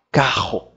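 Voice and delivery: "Carro" with the R vibrating low in the throat; "Carro" with a throaty R; guttural R. Shown as a demonstration. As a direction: let the R of "Carro" buzz at the back of the throat. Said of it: "Você sente vibrar aqui embaixo".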